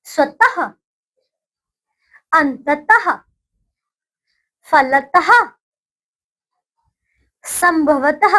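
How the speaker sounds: put-on slow, clearly spaced words for children to repeat; teacher's call-and-repeat drill; repeat after me. Shown as a demonstration. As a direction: say each word cleanly, pausing for the class to echo. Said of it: "चलिए, अब देखिए".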